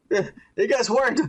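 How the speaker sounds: slow words through real laughter; laughing. Real, not acted. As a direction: laugh it out, slowly. Laughing at bad show writing.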